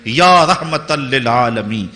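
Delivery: slow, drawn-out Arabic invocation; measured preacher's rendering of a supplication; recited plea. Retold or imitated. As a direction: recite a retold plea slowly, stretching each phrase. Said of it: "مدینے کی طرف منہ کر کے کہہ رہے ہیں".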